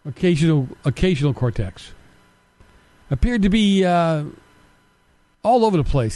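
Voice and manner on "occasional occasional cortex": "Occasional cortex" said as the word occasional, mocking; mocking nickname. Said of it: "Kim calls her?".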